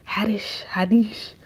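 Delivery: Haddish whispered, breathy and hushed. Real, not acted. Repeating the comedian's name to viewers, whispered.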